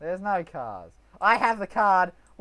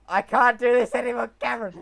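frustrated shout; 5 semitones higher, 8 dB louder, faster than usual. Real, not acted. Frustrated gamer yelling.

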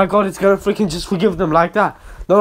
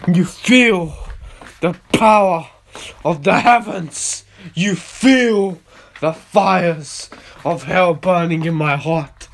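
preaching; slower than usual. Acted. Preaches as God's presence.

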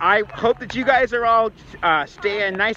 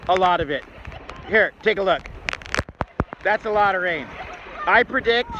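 weather forecast; 3 semitones higher than usual. Pretend. Mock weather forecast on the beach.

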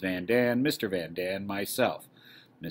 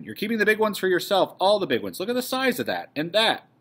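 higher, indignant complaint; indignant accusation; 9 semitones higher, 4 dB louder than usual. Acted. Woman accusing the man dividing potatoes, indignant. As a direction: protest the unfair shares in a raised pitch.

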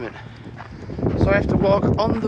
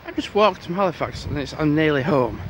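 breathless after a long walk; puffing from the walk; out of breath. Real, not acted. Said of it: "I'm a bit out of breath".

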